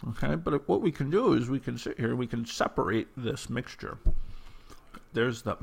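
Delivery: talking through a mouthful; chewing while talking; mouth full. Real, not acted. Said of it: "I'm talking with my mouth full".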